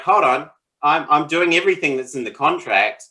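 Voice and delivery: lightly acted exasperation; frustrated nice guy. Nice guy protesting about an unkept contract, mildly frustrated. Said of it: "gets really frustrated 'cause he's like".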